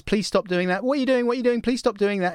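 mock panic of an old shop lady; freaked out. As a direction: beg them to stop. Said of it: "she gets totally freaked out and says".

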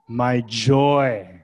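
emphatic joy, JOY drawn out; joyful. Acted. Preacher voices Paul's words to the church, joyful. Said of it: "That's joy right there. ... You hear it?".

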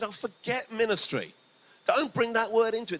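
retold brisk dismissal to the woman; emphatic retort. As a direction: brush the word away forcefully. Telling her to drop ministry.

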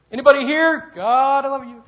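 high, very loud holler; unrestrained, ringing yell; full shout to God. Retold or imitated. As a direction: shout it out across the building. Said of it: "I got a little bit better".

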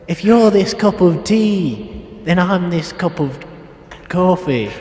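Brian Cox impression. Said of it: "I love that voice".

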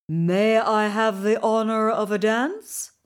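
lightly voiced courtly king; a polite bow in the voice. King Icicle asks Queen Goldenlight to dance, lightly courtly. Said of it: "he asked, bowing low".

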